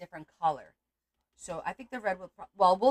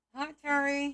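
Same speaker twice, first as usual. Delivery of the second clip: muffled, talking around an object, much higher pitch; 7 semitones higher than usual. Returning a greeting with a pin held in the mouth; muffled, pin in mouth. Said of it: "I've got a pin in my mouth".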